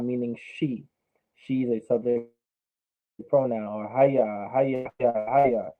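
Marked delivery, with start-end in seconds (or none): none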